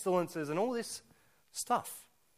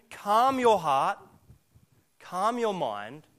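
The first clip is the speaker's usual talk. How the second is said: slow calming words; much slower than usual. Acted. Pastor calming the listeners.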